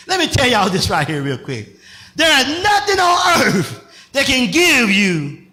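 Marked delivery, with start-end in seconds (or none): 2.2-5.5 first take before flub. Real, not acted. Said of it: "let me try that again".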